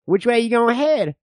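lightly voiced distrustful old-timer; folksy backwoods codger spinning tales; old man. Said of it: "I'm the old man".

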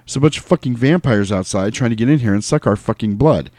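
lightly emphatic movie-leader impression; George Clooney. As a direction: lay it out as a firm film rant. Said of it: "like, spot on".

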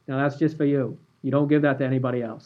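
lightly imitated Boston accent; a hint of a Boston coach; Bob's Boston accent. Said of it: "did you like my Boston accent?".

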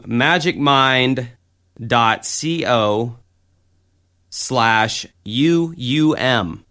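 each letter of U U M said apart; slow and clear. Shown as a demonstration. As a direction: spell out U U M slowly. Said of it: "Once again".

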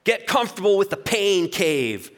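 hammed-up tough-guy mantra. Shown as a demonstration. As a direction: bark the mantras like a hard coach. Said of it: "Here's some mantra examples".

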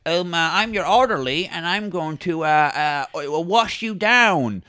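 lightly voiced hesitant orderly; a hint of a funny character voice; Justin Long. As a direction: play a faintly odd comic orderly, halting. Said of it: "That's Justin Long right there".

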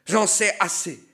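high, loud taunting cry; shouting. Acted. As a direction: yell out mockingly at Bocca. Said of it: "cria quelqu'un".

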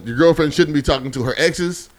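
slow deliberate list reading; slow dramatic reading. Shown as a demonstration. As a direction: read it out slowly, each item weighted. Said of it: "You guys ready? Read this whole shit".

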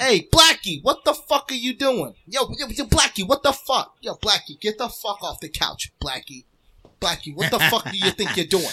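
high, mock scolding yell at a dog; imitated screaming. Imitating a family yelling at their dog, mock screaming. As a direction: rattle off an exasperated dog owner's shouts. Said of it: "they was just screaming".

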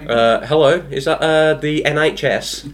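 a touch of put-on politeness on the phone; posh phone voice. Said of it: "what about you, Rob?".

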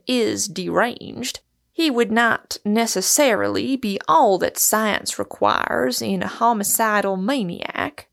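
lightly voiced, deliberate academic; measured scholarly concession; learned doctor, precise. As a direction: expound it with pedantic care.

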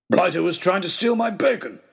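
the baronet explaining himself; Oxshott's voice. Acted. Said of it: "explained Oxshott".

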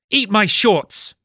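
high, loud and slow taunt; bratty shout. Acted. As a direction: sneer it at them. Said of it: "she could be heard to shout".

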